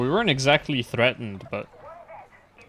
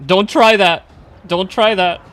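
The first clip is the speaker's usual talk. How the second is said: warning; 6 semitones higher, 12 dB louder than usual. Real, not acted. Warning teammate on railing.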